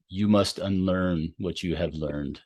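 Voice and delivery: lightly voiced Yoda, slow and solemn; a slow, wise-master hint of Yoda. Coach quoting Yoda to a stubborn athlete, slow and solemn. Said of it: "I did my best Yoda".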